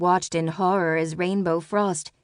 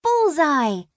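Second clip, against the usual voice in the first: "Bullseye!" cried high and louder; triumphant cry; 10 semitones higher, 5 dB louder than usual. Acted. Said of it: "she cried".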